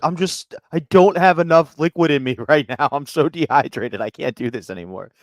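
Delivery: put-on high, laughing girlish voice; a high, breathless giggle through the words; giggly girl quote. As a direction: play her as a giggly, drained girl. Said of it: "She's like".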